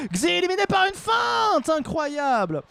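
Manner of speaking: high excited commentator shout; excited play-by-play call. Real, not acted. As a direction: sell the surprise knockout.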